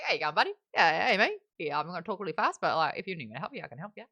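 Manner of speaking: a hint of an Aussie accent, rattled off fast; breezy mock Aussie, rushing the words; imitating Rock as an easygoing fast-talking Aussie; lightly mimicked Aussie. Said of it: "He's totally Aussie".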